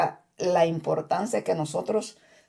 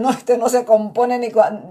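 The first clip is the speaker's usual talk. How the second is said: exasperated sister; 2 semitones higher, 4 dB louder than usual. Retold or imitated. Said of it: "decía una hermana".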